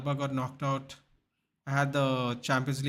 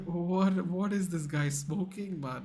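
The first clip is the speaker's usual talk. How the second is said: slow incredulous; 4 semitones higher, slower than usual. Retold or imitated. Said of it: "I was like".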